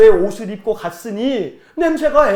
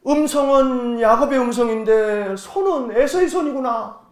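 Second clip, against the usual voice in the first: lightly voiced bewildered old father; puzzled father; 3 semitones higher than usual. Blind father feeling his son's hands, puzzled. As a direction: puzzle it out aloud. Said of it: "그러니까 갸우뚱".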